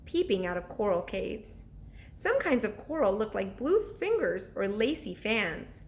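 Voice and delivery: bedtime read-aloud with character voices; storyteller reading to children; story narration. A narrator's reading. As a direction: read it like a chapter book to kids at night. Reads chapter book aloud.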